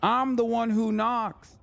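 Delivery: high, hammed-up villain boast; mock menacing. Streamer parodying a TV villain to push subscriptions, hammed-up. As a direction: play the Heisenberg threat for laughs. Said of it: "Breaking Bad line parody".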